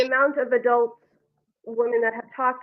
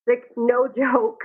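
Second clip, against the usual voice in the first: louder, slow and punched out; emphatic; 4 dB louder, slower than usual. Real, not acted. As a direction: land it slowly as a half-shout. Emphatic aside about small-town gossip.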